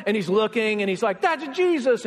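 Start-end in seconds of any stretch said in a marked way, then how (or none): 1.2-2.1 high-pitched, thrilled realization; acted burst of amazement; excited recognition. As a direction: blurt it out as if just recognizing someone. Peter recognizes Jesus on shore.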